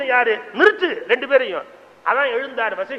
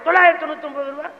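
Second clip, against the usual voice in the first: rapid haggling; 4 semitones higher, much faster than usual. Retold or imitated. Haggling back and forth.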